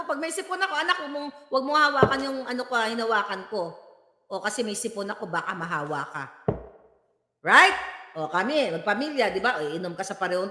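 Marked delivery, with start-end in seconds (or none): 0.7-6.2 lower, softer caring parent voice; gentle warning to child. Retold or imitated. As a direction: tell your child gently not to touch it. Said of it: "ako, ito, sasabi ko". (mahinahong paalala sa anak, mas mababa at mahina)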